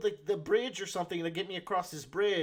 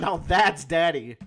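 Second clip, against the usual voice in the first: admiring; 7 dB louder, slower than usual. Pretend. Admiring joke.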